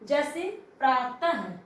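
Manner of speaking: प्रातः said slowly, ending in a breathy ha; visarga ha sound. Shown as a demonstration. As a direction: draw out प्रातः with a clear ha at the end. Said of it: "हमें हा की ध्वनि निकलती है". (प्रातः धीरे, अंत में हा की ध्वनि)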